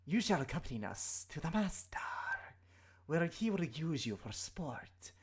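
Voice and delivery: slow menacing serpent whisper; threatening snake creature voice. Acted.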